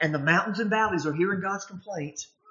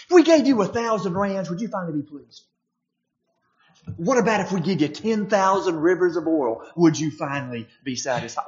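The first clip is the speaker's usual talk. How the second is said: exasperated sarcastic retort, raised and louder; 4 dB louder than usual. Retold or imitated. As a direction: throw it back at God mockingly. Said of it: "sarcasm there".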